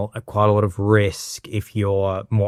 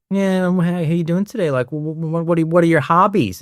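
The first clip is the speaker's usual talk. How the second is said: higher, stammering small talk; imitating a fumbling flirt; flirtatious chiropractor; 5 semitones higher than usual. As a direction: stumble casually through flirty small talk. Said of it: "he's bringing that classic flirtatious energy".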